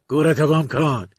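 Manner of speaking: loud, rough yell to get lost; angry shout. Acted. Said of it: "مردک دوباره داد زد".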